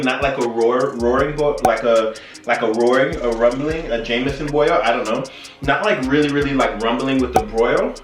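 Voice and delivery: slightly slurred, tipsy tongue-tripping. Real, not acted. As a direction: stumble over the words a little tipsy. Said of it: "I don't know why I can't say this".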